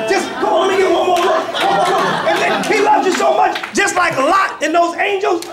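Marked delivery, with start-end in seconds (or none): 0.4-2.3 pleading. Retold or imitated. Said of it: "you see the exit and you just".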